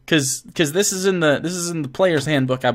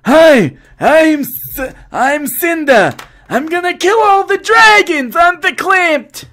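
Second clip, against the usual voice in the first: loud, very high Jewish mom caricature; Jewish mom accent; 13 semitones higher, 7 dB louder, slower than usual. Acted. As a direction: screech it out as an over-the-top Jewish mom accent. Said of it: "Jewish mom accent".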